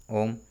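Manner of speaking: ओम held long as a chant; drawn-out Om. Shown as a demonstration. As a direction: sustain ओम for three beats. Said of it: "प्लुत स्वर है". (ओम को लंबा खींचकर)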